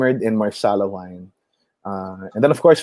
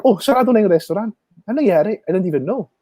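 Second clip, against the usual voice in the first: puzzled customer; 9 semitones higher, faster than usual. Retold or imitated. Customers puzzled, restaurant closed.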